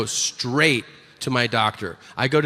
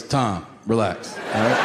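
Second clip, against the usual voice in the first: cool brush-off; 6 semitones lower than usual. Acted. Six-year-old telling dad to calm down, coolly dismissive.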